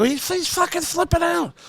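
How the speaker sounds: high, put-on alarmed report; exaggerated alarm. Comic telling the booker, high and alarmed. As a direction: sound aghast at the old man.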